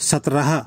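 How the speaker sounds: সতরাহা said as Hindi satrah; Hindi pronunciation. Shown as a demonstration. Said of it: "হিন্দিতে সতরাহা".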